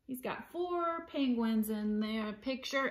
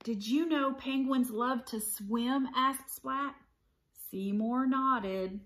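animated picture-book read-aloud; story narration. A narrator's reading. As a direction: read it to children with clear, lively phrasing.

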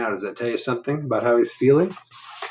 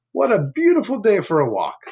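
proud Bob; 3 semitones higher than usual. Acted. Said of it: "said Bob".

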